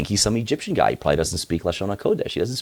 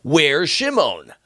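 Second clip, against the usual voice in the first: slow anxious father; 10 semitones higher, 5 dB louder, much slower than usual. Acted. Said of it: "Yaakov's like".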